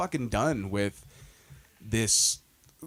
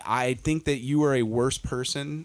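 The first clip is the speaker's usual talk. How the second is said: mock judgment; slower than usual. Mock verdict, slow, laughing.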